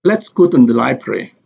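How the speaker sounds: "Let's" and "go" stressed, the rest lighter. Shown as a demonstration. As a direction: lean on "Let's go", let "to the library" fall away. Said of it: "let and go have the sentence stress".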